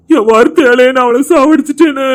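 crying out in guilt; anguished cry. Acted. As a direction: shout the confession in despair. Guilt-stricken confession outburst. (குற்ற உணர்வில் கதறல்)

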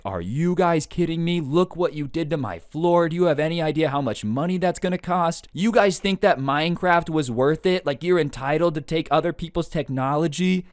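a lightly voiced angry grandfather telling off kids; scolding grandpa. Grandpa scolding grandkids over his damaged floor, mild mock anger. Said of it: "getting yelled at".

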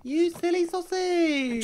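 high, slow sing-song tease; playful teasing. Real, not acted. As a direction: drag it out, teasing fondly. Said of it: "Why did you do that".

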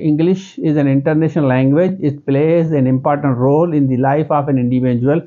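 slow English in a local Sindhi accent. Shown as a demonstration. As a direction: speak English slowly in your own Sindhi accent. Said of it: "मैं अपने accent में बोलूँगा". (सिंधी लहजे में धीमी अंग्रेज़ी)

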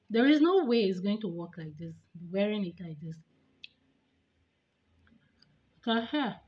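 talking with fingers in mouth; speaking around dental appliance; retainer held in mouth. Real, not acted. Seen 4: Clear plastic retainer pressed against teeth with fingers while talking.

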